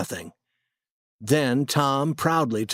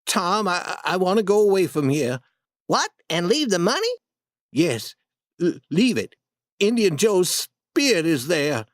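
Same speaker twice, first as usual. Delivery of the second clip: shaking voice; 5 semitones higher than usual. Acted. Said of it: "Huck said in a shaking voice".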